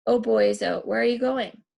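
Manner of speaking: a hint of a girlish call; lightly voiced girlish calling; mock girlish sing-song. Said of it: "called in a shrill, girlish voice".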